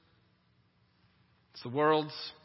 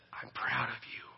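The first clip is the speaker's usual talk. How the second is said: soft, tender fatherly praise; encouraging father; 3 semitones lower, 6 dB quieter than usual. Acted. Good father encouraging his child, softly tender. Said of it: "A good father loves and encourages".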